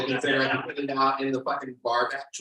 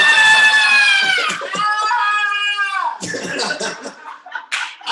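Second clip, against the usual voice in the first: long high-pitched comic shriek; sustained wild squeal; loud high whoop; 15 dB louder than usual. Retold or imitated. Wild noise after storming out.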